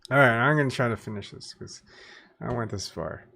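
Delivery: speaking with a dry mouth; talking through a parched, dry mouth. Real, not acted. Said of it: "excuse me for my burping and my dry, uh, my dry mouth".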